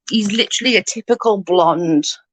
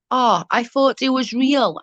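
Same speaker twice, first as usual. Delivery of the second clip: put-on child's voice; 5 semitones higher than usual. Voicing the nephew's surprised answer.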